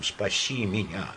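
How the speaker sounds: shaky pleading, rising to despair; trembling plea that climbs at the end. Acted. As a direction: beg with a trembling voice. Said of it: "сказал он дрожащим голосом".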